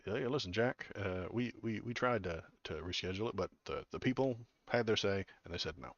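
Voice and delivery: a faint Biden voice, barely off his own; half-hearted folksy Biden; Biden impression. Biden blaming the people for the no, half-hearted impression. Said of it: "not a very good Biden impression".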